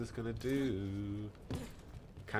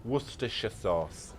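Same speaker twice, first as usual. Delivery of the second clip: mock sexy. Shown as a demonstration. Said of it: "I can say it sexily".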